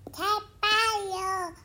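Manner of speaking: fast, loud burst of joy; excited cheer. Acted. The chick celebrates winter break, a fast excited cheer. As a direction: cheer it out quickly.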